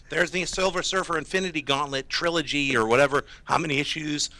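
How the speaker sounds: losing their voice; hoarse, strained voice. Real, not acted. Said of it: "I'm losing my voice".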